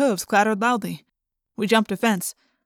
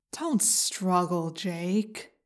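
whispery telepathic voice; 3 semitones lower, 8 dB quieter, much slower than usual. A narrator's reading. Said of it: "a voice in my head said".

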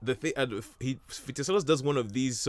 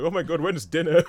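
high, loud whine for dinner; mock-starving detective moaning about dinner; hungry Poirot parody; 7 semitones higher, 7 dB louder than usual. Retelling the film, he voices starving Poirot in a loud whine. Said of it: "and he's like".

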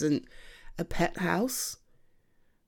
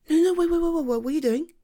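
urgent, raised wait wait; higher, louder panicked protest; alarmed stop; 9 semitones higher, 4 dB louder, much faster than usual. Acted. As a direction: stop them before they move her. Stopping partner lifting sleeping cat.

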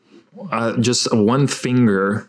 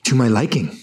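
pompous outraged critic; 6 semitones higher than usual. Acted.

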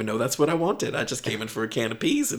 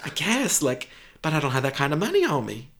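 woman shopper; 3 dB louder than usual. Acted. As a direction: talk yourself into it.

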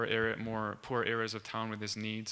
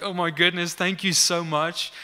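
excited thanks; 4 semitones higher, 8 dB louder than usual. Retold or imitated. Healed man thanks those who prayed, acted-out excitement. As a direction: imitate an overjoyed man, loud and high. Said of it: "like, so excited".

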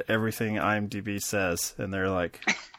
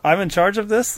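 higher and louder, laughing through it; laughing boast; 9 semitones higher, 9 dB louder than usual. Real, not acted. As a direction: crow that you're the boss, half laughing. Joking about being the boss.

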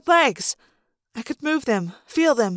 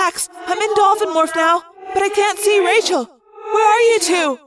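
high, anxious cry; distressed echoing thought-speak; Cassie; 5 semitones higher than usual. A narrator's reading. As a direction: call out urgently for missing friends. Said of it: "Cassie cried".

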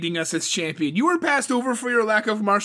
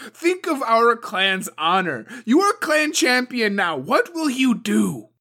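loud, high, relentless tirade; furious demand; 12 semitones higher, 9 dB louder than usual. A narrator's reading. Suko pressures Toturi to act, loud furious harangue. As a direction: browbeat the new champion.

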